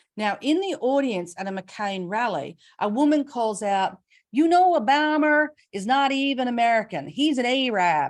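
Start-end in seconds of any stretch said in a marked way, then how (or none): 4.4-8.2 loud, carrying, put-on American accent. Quoting a woman calling out at a McCain rally, in an American accent. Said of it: "So how was my American accent right then?".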